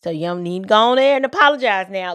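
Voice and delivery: mock Southern voice rattling off advice fast; hint of a Southern accent, hurried and coaxing; Mickey Mouse southern drawl. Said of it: "Mickey Mouse with a southern drawl".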